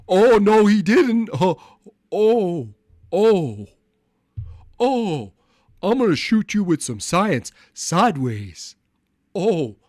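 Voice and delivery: put-on loud high African American accent; brash African American accent. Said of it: "You want me to do my black voice".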